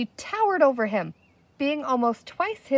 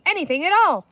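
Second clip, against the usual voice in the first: higher, louder pleading; desperate cry; 8 semitones higher, 6 dB louder, faster than usual. A narrator's reading. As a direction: beg them to hurry. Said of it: "cried the chief".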